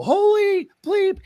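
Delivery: loud, drawn-out disbelief; stunned exclamation. Retold or imitated. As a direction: burst in amazed. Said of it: "and I go".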